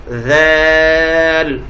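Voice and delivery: ذال stretched long and steady; drawn-out letter name. Shown as a demonstration. Teacher modelling letter names for students, drawn out. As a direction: hold ذال with a long vowel. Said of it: "ایسے ہی".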